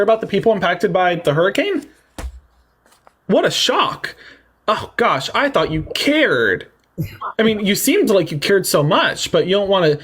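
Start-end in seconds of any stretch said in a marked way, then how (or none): 3.3-6.7 mock shock. Sarcastic mock surprise.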